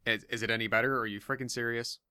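garbled, watery connection; like talking from under water; underwater sound. Real, not acted. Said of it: "you sound like you're underwater".

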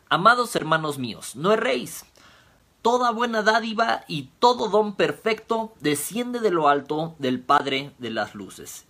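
scripture reading. Acted. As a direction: proclaim the verse like a preacher at the pulpit.

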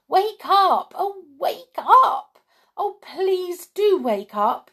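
high, loud urgent wake-up calls; a little girl shaking them awake; high excited cries of wake up; excited shouting. A narrator's reading. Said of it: "shouting into their ears".

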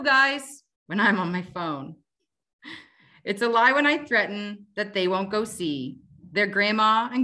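wry, rhythmic recital of a comic poem; poem reading. Acted. Guest mom reads her sarcastic poem to the host, wry recital. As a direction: deliver the rhymes with dry comic timing.

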